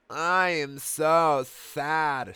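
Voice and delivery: slow, high mock crying. A narrator's reading. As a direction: drag it out in a fake sob. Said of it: "said Amy in a crying way".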